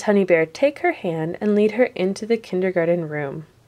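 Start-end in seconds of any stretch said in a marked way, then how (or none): none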